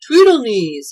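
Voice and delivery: loud, high call-out; shouted call. A narrator's reading. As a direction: shout the name to summon someone. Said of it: "he shouted".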